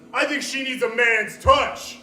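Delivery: mock creepy UPS guy; leering delivery guy. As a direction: lay it on slow and suggestive. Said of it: "the U P S guy stands there just going".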